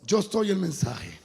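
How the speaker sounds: God's measured reply. Acted. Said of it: "Y me digo".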